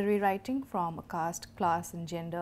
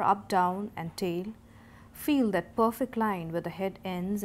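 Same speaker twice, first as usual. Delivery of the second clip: emphatic instructional poem reading; short deliberate phrases, key words leaned on; poetry recitation; 3 dB louder than usual. Acted. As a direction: give each step as a measured, firm instruction.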